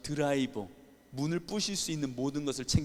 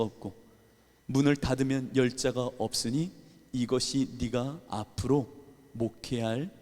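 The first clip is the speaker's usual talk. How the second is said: voice of God; 3 semitones lower than usual. Retold or imitated. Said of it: "말씀을 생각나게 하시며".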